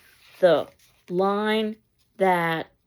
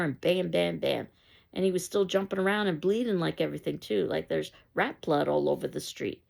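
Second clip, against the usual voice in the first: put-on excited boy. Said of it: "Travis comes in all excited".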